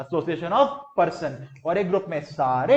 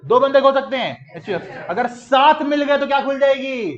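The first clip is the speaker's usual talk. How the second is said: high, loud classroom chant; raised teacher's call-and-response shout; leading a recitation; 5 semitones higher, 6 dB louder than usual. Shown as a demonstration. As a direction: shout the drill so the class joins in. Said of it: "मेरे साथ बोलना है".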